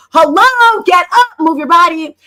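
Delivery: high, loud party call; hyping them up. Retold or imitated. Calling seated ladies up to dance, loud and high. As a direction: shout them onto the dance floor. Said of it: "I'm like".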